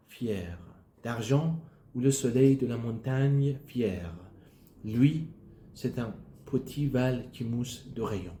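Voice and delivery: measured poetry reading, phrase by phrase; poem recitation. Acted. Learner reading Rimbaud's poem aloud, careful recitation. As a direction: recite the verse deliberately, with pauses.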